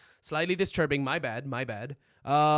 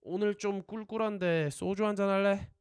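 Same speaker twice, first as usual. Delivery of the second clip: teacher's model phrase; 5 semitones higher, 3 dB louder, much faster than usual. Shown as a demonstration. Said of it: "repeat after me".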